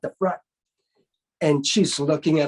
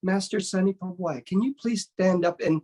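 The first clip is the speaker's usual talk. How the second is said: tournament host. Retold or imitated. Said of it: "And the host goes".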